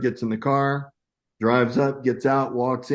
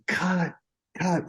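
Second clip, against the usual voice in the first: imitated director's cut; 8 semitones higher, 4 dB quieter than usual. Director calling cut, retold.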